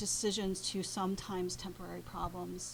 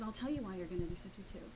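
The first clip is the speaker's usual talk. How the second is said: quiet grave confession; 4 dB quieter, faster than usual. Retold or imitated. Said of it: "And he said".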